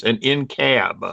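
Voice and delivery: slow hillbilly drawl on in cab; appalachian accent. Shown as a demonstration. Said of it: "My hillbilly voice".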